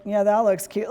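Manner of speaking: the same words but mocking; backhanded praise with a chuckle; sarcastic compliment. Shown as a demonstration. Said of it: "Or you'd be like".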